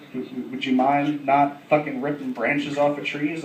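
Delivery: low, soft, hesitant request; tentative and subdued; cautious approach. Retold or imitated. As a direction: tread carefully with a stammered ask. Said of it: "I approached him fucking cautiously".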